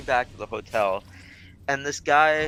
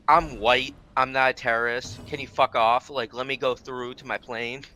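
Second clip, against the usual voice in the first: sarcastic paraphrase. Retold or imitated. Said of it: "she's saying".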